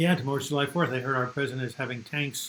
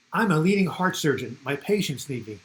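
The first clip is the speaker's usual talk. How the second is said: lightly voiced surgeon; 4 dB louder than usual. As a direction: announce it like a self-important doctor, lightly. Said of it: "the first person stands up and says".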